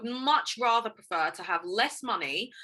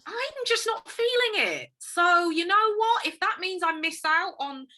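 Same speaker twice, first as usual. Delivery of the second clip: high, slow, drawn-out telling-off; sassy high breakup voice to Facebook; mock breakup speech; 10 semitones higher, 3 dB louder than usual. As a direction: dump Facebook like a boyfriend. Addressing Facebook directly, mock breakup.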